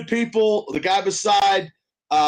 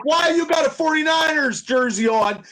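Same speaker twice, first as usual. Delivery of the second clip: higher mock heckling of a fan; imitating Larry yelling; 6 semitones higher than usual. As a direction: razz the guy in the wrong jersey, half-shouted. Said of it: "He's like".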